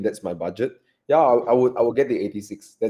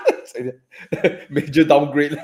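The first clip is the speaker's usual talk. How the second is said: laughing; 4 semitones higher, much slower than usual. Real, not acted. Laughing at the downgrade joke.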